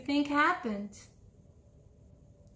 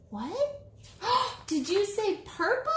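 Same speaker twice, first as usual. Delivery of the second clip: mock surprise; 9 semitones higher than usual. Reader reacts to children's guess.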